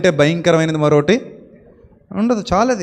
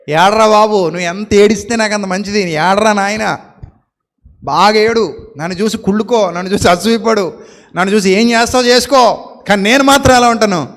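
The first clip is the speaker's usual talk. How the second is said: gloating taunt. Pretend. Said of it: "అని చెప్పాలట".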